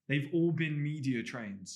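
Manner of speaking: slow and firm, every word weighed; slow, strong statement. Shown as a demonstration. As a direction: deliver it like a press briefing. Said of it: "slow statements like this".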